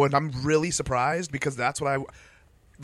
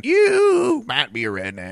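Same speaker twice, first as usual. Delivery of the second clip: slow, higher, drawn-out redneck delivery; redneck comic line; 9 semitones higher, 7 dB louder, slower than usual. Retold or imitated. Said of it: "And then".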